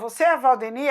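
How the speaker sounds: surprised teacher. Retold or imitated.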